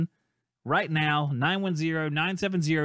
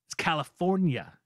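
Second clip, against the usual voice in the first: ordinary talk, nothing marked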